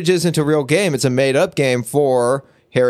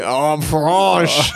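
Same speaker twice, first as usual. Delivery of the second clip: hammed-up French accent. Cohost taking accent challenge, hammed-up French accent. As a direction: put on a stereotype French voice. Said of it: "Okay, French".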